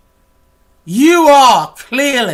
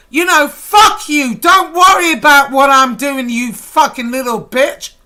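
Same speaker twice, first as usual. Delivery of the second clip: furious shout. Real, not acted. Angry rant at a critic.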